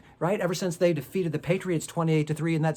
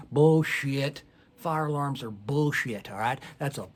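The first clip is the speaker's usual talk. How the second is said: scoffing denier; slower than usual. Retold or imitated. Denier in a burning room scoffing at the fire alarm.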